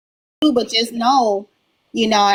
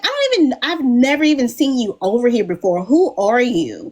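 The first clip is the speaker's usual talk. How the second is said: retold incredulous challenge; 3 semitones higher than usual. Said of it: "And I'm like".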